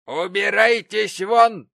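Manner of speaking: high, loud, slow banishment; loud slow order. Acted. Mrs Gamp ordering Betsey Prig out, loud slow command. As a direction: throw her out with each word. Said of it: "произнесла миссис Гэмп".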